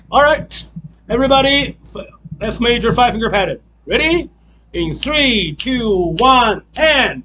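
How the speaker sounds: rally everyone and count them in; calling out. Real, not acted. Teacher calls count-in to class.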